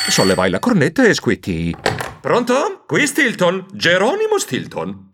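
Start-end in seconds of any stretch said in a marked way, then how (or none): 2.2-5.1 higher polite phone answer; high rising hello; phone greeting. Acted.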